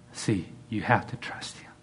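soft, unvoiced whisper; soft hushed whisper. Real, not acted. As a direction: whisper it close. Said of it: "whispered aside".

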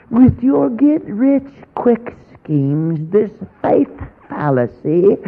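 high, slow mocking accusation; mocking accuser. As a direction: drag out the critic's sneering charges. Quoting the critic's accusation.

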